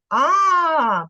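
long A with the mouth opened wide. Shown as a demonstration. Teacher shows how the mouth opens, long loud A. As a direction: open the mouth wide and hold A. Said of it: "Звучить звук і нічого йому не заважає".

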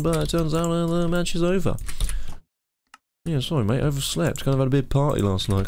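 lightly voiced hungover sports commentator; partying sports commentator. Tipsy commentator apologising to a mate for oversleeping, lightly put-on commentator voice. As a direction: make half-hearted excuses as a tipsy commentator. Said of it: "My impression of, um, uh, a, uh, sports commentator who likes to party".

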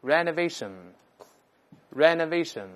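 renovation drawn out very slowly, stress on the va; model reading. Shown as a demonstration. Teacher drills the noun form, slow and careful. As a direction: read renovation slowly twice for the class. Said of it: "再读它的名词".

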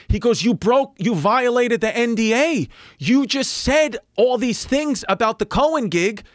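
high, urgent manager on the phone; panicked manager. Retold or imitated. Manager warns comic about lawsuit, high and urgent. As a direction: rush the warning like a frantic manager.

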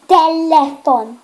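telephone said as telefon, even and slow; Slovak word. Shown as a demonstration. Child teaching the Slovak word for phone, slowly. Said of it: "how you say phone in Slovakia is".

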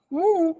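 cow moo. Shown as a demonstration. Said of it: "काऊचा आवाज कसा असतो".

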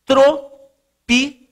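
sílaba por sílaba. Real, not acted. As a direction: dictate "tropical" with long gaps between syllables. Dita a palavra enquanto escreve. ("tropical" ditado pausadamente, sílaba por sílaba)

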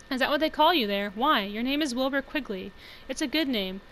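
lightly voiced mother reading her letter, lively and pressing; a hint of a nagging, offended mum; scolding mother. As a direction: read it as a mildly reproachful mother.

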